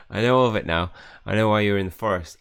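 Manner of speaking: loud, insistent acted confession; urgent outburst. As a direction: blurt it out forcefully. Reads emotional confession to ghost friend.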